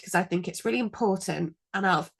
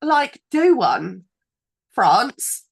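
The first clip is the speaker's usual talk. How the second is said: angry; 2 semitones higher, 6 dB louder, much slower than usual. Real, not acted. Ranting about the French law.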